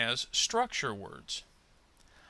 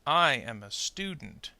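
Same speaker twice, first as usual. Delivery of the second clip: slow model sentence, stress on the first syllable of "student". Shown as a demonstration. Teacher models sentence stress for students to repeat, slow stress on "student". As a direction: hit STU in "student", carefully paced for repeating. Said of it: "stressed syllable in the content words".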